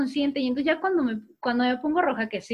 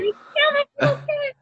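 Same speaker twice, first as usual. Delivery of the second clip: very high, loud, slow playful yell; yelling like crazy; 4 dB louder, slower than usual. Retold or imitated. Cheerleader owning her mistake to the audience, very high loud yell. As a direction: scream the blunder out on stage. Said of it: "Seguí gritando como loca".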